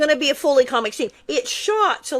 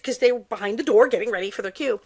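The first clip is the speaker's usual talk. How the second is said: ordinary talk, nothing marked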